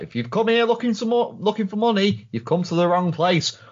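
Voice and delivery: Wurzel's voice. Retold or imitated. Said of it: "just sort of like".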